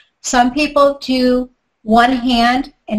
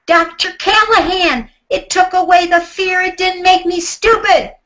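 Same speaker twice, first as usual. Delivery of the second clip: higher, called back across the yard; yelling back; 8 semitones higher than usual. Retold or imitated. Mary yells back at the doctor from the pool, a light shout. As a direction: toss the reply back in a teasing yell. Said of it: "she yells back".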